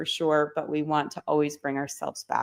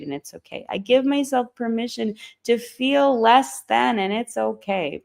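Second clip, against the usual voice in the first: guided affirmations; 3 semitones higher than usual. Acted. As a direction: lead the group gently through permission. Leads permission affirmations.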